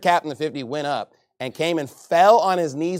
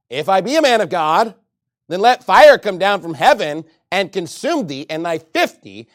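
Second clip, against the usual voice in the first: Elijah's stern reply; 2 semitones higher, 8 dB louder than usual. Acted. Elijah answers the captain.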